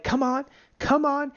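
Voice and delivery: high, slow coaxing; luring. Acted. The marketplace lures the trader into a trap, luring. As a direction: coax them in, high and drawn out. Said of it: "knows how to lure you in".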